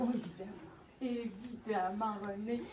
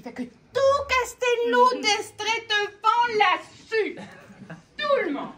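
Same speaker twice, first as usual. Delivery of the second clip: high, loud, slow laughing exclaim; 10 semitones higher, 15 dB louder, slower than usual. A narrator's reading. Narrator laughing about the whole village. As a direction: celebrate it out loud.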